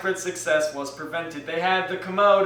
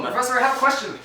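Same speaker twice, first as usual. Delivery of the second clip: put-on German accent; 5 semitones higher, much faster than usual. Student asking the professor in a German accent. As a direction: ask it in a thick German accent. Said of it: "You've stolen my German accent".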